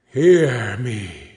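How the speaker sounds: understated ghostly cry; mild cry. A narrator's reading. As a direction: call for attention lightly. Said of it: "cried the ghost".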